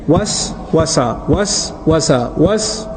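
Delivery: "Was, wasa" said slowly, each syllable spaced apart; slow whispery syllables. Shown as a demonstration. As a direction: draw out "was" and "wasa" like a hushed, repeated whisper. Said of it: "You see the two syllables together?".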